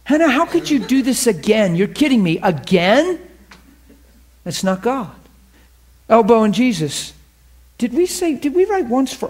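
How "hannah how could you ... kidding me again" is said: high, exasperated scolding of Hannah. Retold or imitated. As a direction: scold her like a fed-up parent. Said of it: "He's not going".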